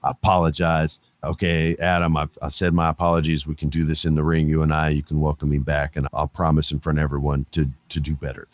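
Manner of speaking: a humble apology from the villain; playing the reasonable version of the character; calm, sorry Drew McIntyre. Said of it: "the Drew McIntyre character would have been like".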